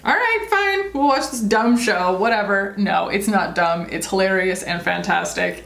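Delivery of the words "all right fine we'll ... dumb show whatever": grudging mock sigh. Retelling caving to a show on Hulu, mock grudging. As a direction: sound put-upon and grudging, like settling for less. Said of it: "and I was like".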